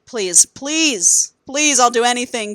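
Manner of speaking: mock desperate begging; simping plea. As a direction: imitate a man pleading to be taken back. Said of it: "Simping hard".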